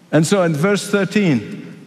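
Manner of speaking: ordinary talk, nothing marked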